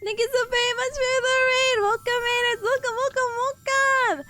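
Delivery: high, bright streamer welcome; excited greeting. Real, not acted. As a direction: greet the raiders with delight. VTuber greeting raiders excitedly.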